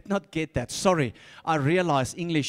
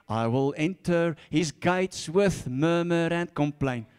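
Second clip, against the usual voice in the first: slow, sulky moaning of the verse; mock grumbling prayer. Shown as a demonstration. Preacher mocking a grumbling prayer, slow and sulky. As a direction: grumble the words like a complainer. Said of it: "Don't pray like that".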